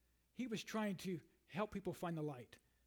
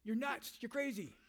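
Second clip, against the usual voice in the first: a mildly raised voice as governor Festus, higher in pitch; mock Festus calling Paul crazy, half-shouted; loud voice; 5 semitones higher, slower than usual. Governor Festus shouting Paul down, a mild mock shout. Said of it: "said in a loud voice".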